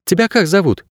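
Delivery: high, coaxing little question; affectionate murmur. A narrator's reading. Girl asking a strange dog its name, affectionate. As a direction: ask sweetly, as to an animal. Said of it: "ласково бубнила она".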